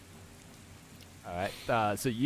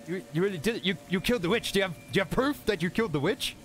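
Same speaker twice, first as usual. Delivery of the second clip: stunned mob voice; 8 semitones higher, faster than usual. Acted. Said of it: "They're like".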